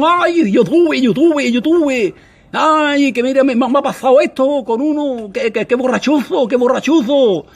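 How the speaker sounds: high, whiny mock tattling; mock complaint to YouTube. Mocking a rival complaining to YouTube, high mock tattling. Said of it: "como los niños chicos".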